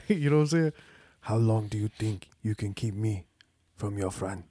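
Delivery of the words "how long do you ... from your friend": king quote. Retold or imitated. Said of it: "I'm doing it live".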